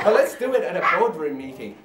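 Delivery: spoken-word poem, measured and emphatic; poetry recitation. Acted. Poet performs a comic poem for an audience, declaimed. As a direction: recite it to a live crowd.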